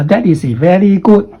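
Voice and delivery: "very" said as "veli", with an L in place of the R; wrong L for R. Shown as a demonstration. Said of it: "Don't say".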